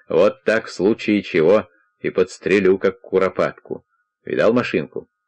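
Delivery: ordinary delivery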